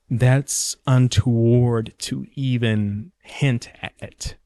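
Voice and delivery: slow, prim and pearl-clutching; prissy prim delivery. Shown as a demonstration. Mocking the idea that race is too touchy to mention, said primly. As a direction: drag out "hint at" until it fades to a breath. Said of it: "I don't know why I said it like that".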